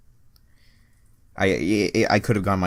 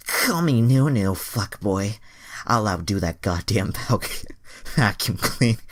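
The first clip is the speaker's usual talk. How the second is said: loud, higher, slow lewd boast; boastful Andrea; 3 semitones higher, 4 dB louder, slower than usual. Acted. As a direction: ham up a seductive brag.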